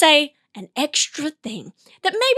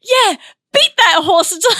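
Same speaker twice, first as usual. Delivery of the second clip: louder, higher cheering from the sideline with a laugh; 10 semitones higher, 7 dB louder than usual. Pretend. Cheering a football player from the sideline, louder. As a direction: shout encouragement at a player. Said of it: "you're off the side, you go".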